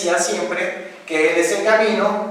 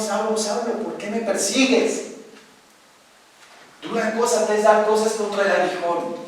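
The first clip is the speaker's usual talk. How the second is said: higher, solemn voice of the Lord; higher, solemn divine voice; 4 semitones higher than usual. Acted. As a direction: speak as God calling Saul.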